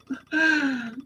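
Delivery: sharp high gasp of alarm; high shocked gasp. Retold or imitated. She gasps at her own inner scolding.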